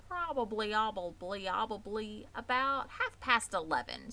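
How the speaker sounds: a goose catching on her words, lightly voiced; stuttering goose. Old goose answering the pig, stammering and fussy. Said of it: "goose repeats herself, stuttering".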